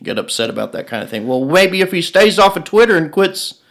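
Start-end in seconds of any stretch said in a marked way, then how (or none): 1.3-3.6 put-on higher-pitched grumbling old boomer; old person voice. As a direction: complain like a cranky old-timer. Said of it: "Your old person voice is really good".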